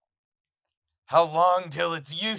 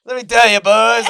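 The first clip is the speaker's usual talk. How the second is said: loud, high mock lecture yell; screaming; 7 semitones higher, 12 dB louder than usual. Telling the sauna guys about anime, screaming. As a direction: holler it at the whole room, pitched way up. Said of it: "I start screaming".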